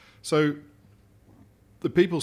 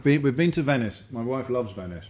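talking through a mouthful; mouth full; 3 dB louder than usual. Real, not acted. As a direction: speak round a bite of food. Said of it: "you do have a mouthful".

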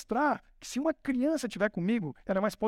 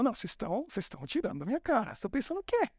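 higher, mocking giant scoffing at a boy; an outraged giant laughing off a kid; a hint of a sneering giant; indignant Goliath; 5 semitones higher than usual. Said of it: "Golias ficou indignado, falou".

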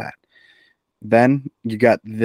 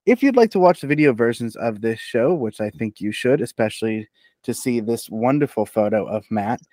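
podcast outro. Acted. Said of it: "let me show you how it's done".

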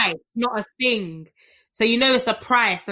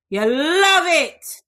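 slow, higher, louder teasing "You love it"; drawn-out teasing; 6 semitones higher, 5 dB louder, much slower than usual. Shown as a demonstration.

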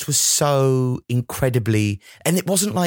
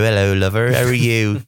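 put-on a Norfolk accent bursting out, louder; louder Norfolk accent breaking through the posh voice; hidden Norfolk accent; 4 dB louder than usual. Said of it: "it's waiting to come out and go".

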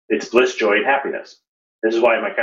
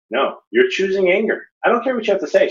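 retold firm rebuke; 11 semitones higher than usual. Friend retold rebuking the angry speaker.

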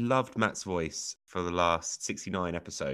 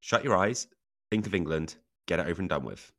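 mock seduction line; 3 semitones lower, 4 dB louder than usual. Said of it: "a line I've never used with ladies".

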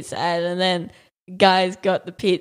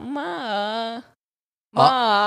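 mock whining; 3 semitones higher than usual. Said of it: "And he's like".

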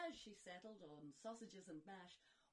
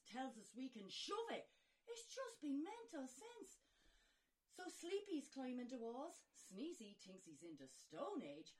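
Snow White voice; 2 semitones higher, 13 dB louder than usual. Acted. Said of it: "In dulcet tones the girl responded".

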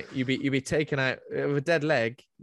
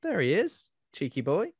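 mock greeting; 10 semitones higher, 3 dB louder than usual. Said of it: "you went".

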